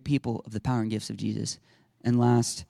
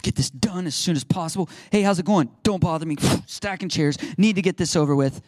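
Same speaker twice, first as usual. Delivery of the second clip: mock grumbling, impatient and put-upon; irritated huff with loud bursts; huffing complaint; 3 semitones higher, 4 dB louder than usual. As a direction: imitate a grudging helper huffing through chores. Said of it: "they're just over there huffing".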